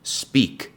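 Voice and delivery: "Speak" said clearly with a long ee; model pronunciation. Shown as a demonstration. Teacher giving the present form for students to repeat. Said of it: "Primero en presente".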